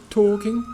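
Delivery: "talking" said as "tawking", no L; silent L. Shown as a demonstration. Teacher explains the silent letter, no L in "talking". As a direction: leave the L out of "talking". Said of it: "we have a silent L".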